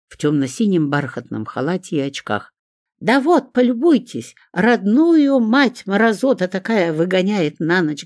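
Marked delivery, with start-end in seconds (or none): 3.0-8.0 high, loud shriek of outrage; shrieking complaint. A narrator's reading. Лариска shrieks to the neighbour for sympathy. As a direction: shriek it to win the neighbour over. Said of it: "заверещала Лариска".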